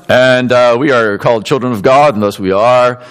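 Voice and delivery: low, flat, dull monotone reading. Shown as a demonstration. Preacher mocks reading the verse in a dull monotone. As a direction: read it like it bores you. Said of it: "would this be a monotone?".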